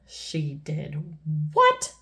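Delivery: slow, drawn-out disbelief; shocked cry. A narrator's reading. King hearing the soldier's report, shocked cry. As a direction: stretch it out in mock shock. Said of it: "cried the king".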